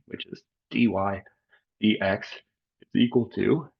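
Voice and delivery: fighting off a sneeze; holding back a sneeze. Real, not acted. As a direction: talk while suppressing a sneeze. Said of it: "sorry, I'm trying not to sneeze".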